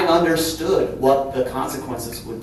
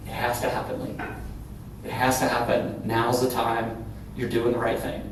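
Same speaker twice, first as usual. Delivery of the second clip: reassuring; 2 semitones lower, 7 dB quieter than usual. Retold or imitated. Retells old boss reassuring her.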